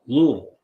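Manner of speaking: Louisville said "Luh-uh-vul", quick and local; Louisville as "Luh-vul" again; local pronunciation. Shown as a demonstration. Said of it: "That's Louisville".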